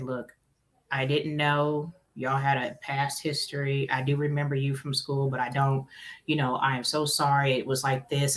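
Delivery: soft apology. Retold or imitated. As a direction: ease the server's hurt. Apologizing to the server.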